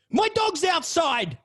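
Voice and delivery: high, loud and slow call; dazed girl cry. Retold or imitated. The tripping girl calls out for her dog, high and slow. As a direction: call out slowly, high and lost.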